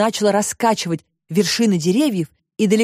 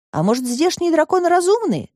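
put-on higher girl's voice, curious; Alisa wondering; 11 semitones higher than usual. A narrator's reading. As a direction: wonder aloud as a young girl. Alisa's voice, high. (высокий девичий голос, с любопытством)

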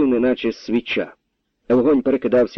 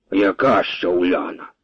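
calm; 3 semitones lower than usual. A narrator's reading. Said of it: "спокійно перепитав Божич".

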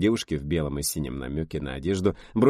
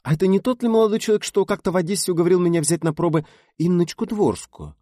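put-on sly old director; 13 semitones higher, 7 dB louder than usual. A narrator's reading. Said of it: "лукаво щурясь".

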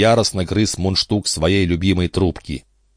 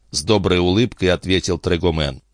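ordinary delivery, nothing marked

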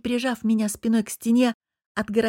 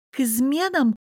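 raised, incredulous snappish question; snapping back; 6 semitones higher than usual. A narrator's reading. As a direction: snap it back, stung. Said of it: "огрызнулась".

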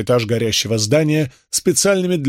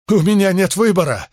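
high, pleading desperation; a ruined man begging fate; in despair; 8 semitones higher than usual. A narrator's reading. Shopkeeper tells Crassus he has no choice, high despairing. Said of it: "в отчаянии проговорил он".

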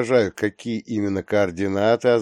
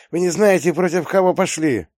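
higher, loud threat; shouted threat; 9 semitones higher, 4 dB louder than usual. Acted. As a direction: yell the threat at them. Arrested man threatens.

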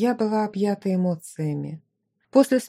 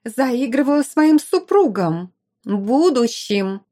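teasing emphasis, slowed on the last word; mock-pedantic correction; playful correction; 4 semitones higher, 4 dB louder, slower than usual. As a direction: correct her with a wink. Rival correcting, playful aside.

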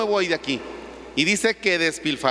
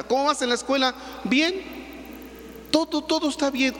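evasive son; 7 semitones higher, 4 dB quieter than usual. Retold or imitated. Father and son exchange.

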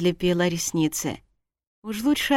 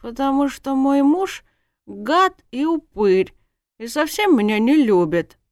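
higher, petulant complaint; whiny self-pity; 7 semitones higher, 4 dB louder than usual. Acted. Drunk wife complains of unloving husband, whiny. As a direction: whine it with wounded emphasis.

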